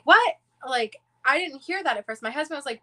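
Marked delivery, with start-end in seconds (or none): 0.0-0.4 sudden high, loud what; startled what. Retold or imitated. Told by her son someone tried the door, a high startled what. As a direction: jump at the news. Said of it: "And we're like".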